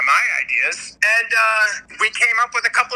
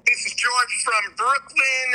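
put-on heavy Italian accent; 3 semitones higher than usual. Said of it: "Super heavy Italian accent".

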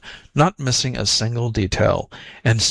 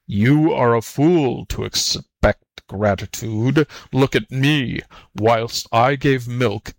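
lightly voiced grumbling buffalo; slightly weighty, aggrieved animal voice; a hint of a bitter old work beast; embittered buffalo.

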